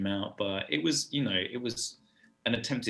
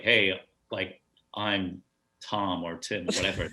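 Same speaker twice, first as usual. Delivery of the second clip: lightly imitated American accent; slower than usual. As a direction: imitate a casual American introducing himself. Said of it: "I love your American accent already".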